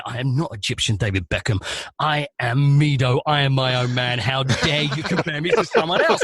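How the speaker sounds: mildly mock the offended star; imitating seething footballer. Footballer scolding the presenter on stage, lightly acted fury. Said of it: "who's seething".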